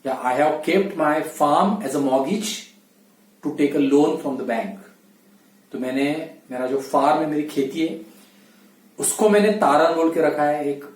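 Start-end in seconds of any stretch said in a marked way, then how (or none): 0.2-4.8 slow example sentence. Shown as a demonstration. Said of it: "teacher models example sentence slowly".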